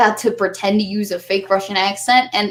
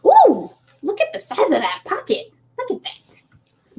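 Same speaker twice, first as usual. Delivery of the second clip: squeaky, gushing excitement; high excited voice; 11 semitones higher than usual. Pretend. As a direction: gush over it like a kid. Gushing over the coat pocket.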